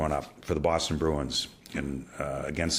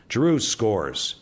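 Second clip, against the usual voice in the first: flat goal call; 3 semitones higher, 3 dB louder, much slower than usual. Retold or imitated.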